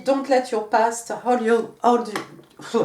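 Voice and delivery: slow English, tripping on "hold you"; stumbling language switch. Real, not acted. Card reader struggling to switch from French into English, stumbling. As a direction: get stuck and restart on "hold you". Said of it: "j'ai du mal des fois à passer d'une langue à l'autre".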